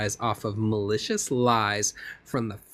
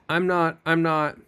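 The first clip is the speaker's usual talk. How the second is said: higher-pitched acted protest; indignant protest; 4 semitones higher than usual. Witness protests to lawyer she isn't yelling, indignant. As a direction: break in with a mildly heated denial.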